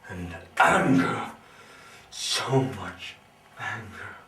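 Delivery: sudden loud surge on anger; angry outburst. Acted. Confessing to the doctor his anger, a sudden outburst. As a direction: let the anger burst out.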